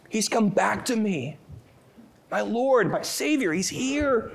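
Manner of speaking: high, hushed voice of tearful joy; Mary overwhelmed with joy. Acted. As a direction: breathe it out like Mary seeing him alive. Voicing Mary's overwhelmed joy.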